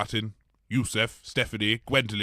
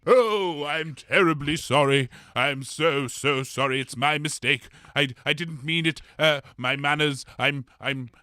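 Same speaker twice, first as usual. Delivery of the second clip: flustered apology; 3 semitones higher than usual. Acted. Flustered apology after insulting Fog.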